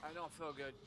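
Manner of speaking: queasy dread after retching; low and sick, dismayed; nauseated horror. Real, not acted. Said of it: "I'm legit gonna throw up".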